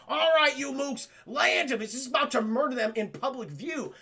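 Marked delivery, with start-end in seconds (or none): 0.1-1.8 raised, lightly voiced mob boss; tough mobster. Gangster at the dig site threatening kids, raised voice. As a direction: call it out like a mock hoodlum.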